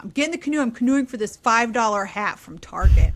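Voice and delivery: a hint of a raging husband; mock rage. Husband ranting as he fetches the canoe, mock rage. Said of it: "So he's in a rage".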